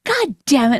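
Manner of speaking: mock irritated curse, punched on the first word; angry husband imitation. Wife mimics husband retelling what he did, mock angry. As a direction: imitate him cursing in irritation. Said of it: "you'll be like this".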